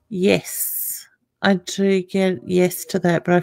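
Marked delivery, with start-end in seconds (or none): 0.1-0.7 whispered yes. Real, not acted. Answering a caller's question.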